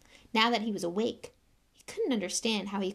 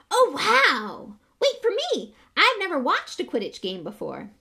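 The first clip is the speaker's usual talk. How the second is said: very high, loud, breathless little fan; eager young boy; 9 semitones higher, 9 dB louder than usual. A narrator's reading. Young fan Colin rushes to show Harry his photo, very high. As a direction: bounce with excitement at your hero.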